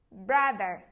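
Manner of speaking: loud call. Shown as a demonstration. Class echo game, loud then soft.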